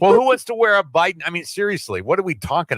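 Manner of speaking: high and loud in disbelief; amused outrage at the idea; incredulous. Real, not acted. Incredulous joking rant.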